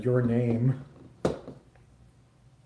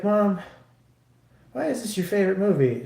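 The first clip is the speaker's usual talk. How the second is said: higher, baffled question to mom; incredulous question; 7 semitones higher, faster than usual. Retold or imitated. Son questioning mom about her favorite movie, higher and baffled. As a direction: ask it like you can't believe her taste.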